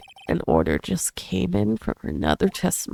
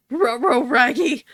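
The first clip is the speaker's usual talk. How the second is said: Scooby-Doo voice; 3 semitones higher, 4 dB louder than usual. Pretend. Scooby-Doo voice in game reading.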